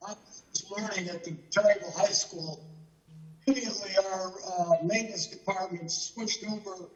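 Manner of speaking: choppy call audio cutting out; breaking up. Real, not acted. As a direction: voice dropping in and out on a bad connection. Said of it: "you're cutting in and out".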